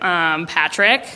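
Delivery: low, slow, understated hint; knowing suggestion. Retold or imitated. Mom raises her eyes and suggests a classmate, dryly knowing. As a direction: offer the name slowly, as if obvious. Mother pointedly suggests a boy.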